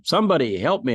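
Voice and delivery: loud, high cry for help; a hammed-up panicked plea; desperate plea. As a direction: call out to God, hanging on. Man hanging from cliff.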